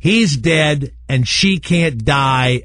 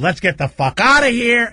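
mock wife; 10 semitones higher than usual. Wife's line retold with laughter.

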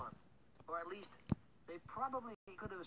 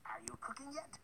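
breathy whisper asking; whispered question; 7 semitones higher than usual. A narrator's reading. Baker woman asks Hansel, whispering. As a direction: whisper it through the oven door.

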